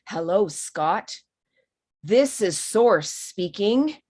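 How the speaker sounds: a hint of a grand voice from beyond, slow; deep strong voice. Medium imagining Source addressing Scott, slow, lightly deepened voice. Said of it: "a very deep, strong voice".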